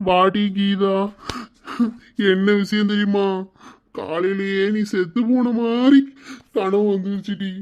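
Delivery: halting, sobbing explanation; tearful telling. Acted. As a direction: break up the news with little sobs. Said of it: "இப்படி போட்டு அழுதுட்டு இருக்கீங்க". (அழுதுகொண்டே சொல்வது)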